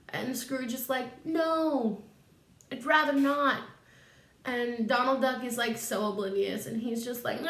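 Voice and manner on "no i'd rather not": mock refusal. Scrooge refuses the invitation.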